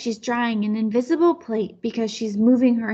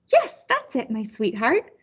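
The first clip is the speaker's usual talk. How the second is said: happy grandma. Acted. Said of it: "Now Grandma is laughing".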